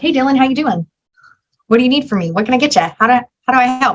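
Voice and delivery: very fast, rattled-off, rapid-fire delivery. Acting out how she greets dylan in every conversation, very fast talking. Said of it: "I talk like this very fast".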